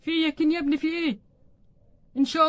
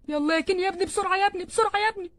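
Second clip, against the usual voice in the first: raised pitch, pressing him on; urgent hurrying; 5 semitones higher than usual. Acted. Father-in-law rushing Ken to the hospital, urgent. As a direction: hurry him along insistently.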